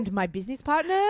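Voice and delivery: vague European accent, imitated; Lindsay Lohan. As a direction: put on a celebrity's odd European accent. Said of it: "You're really good at it".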